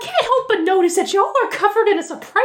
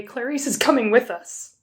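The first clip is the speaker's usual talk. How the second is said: low robot voice; 6 semitones lower, 4 dB quieter than usual. Acted. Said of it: "Bloodbot ... and say".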